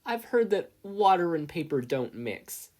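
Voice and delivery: high, loud taunting suggestion; mock helpfulness, loud. A narrator's reading. Crony mockingly telling Izuku to fetch his book.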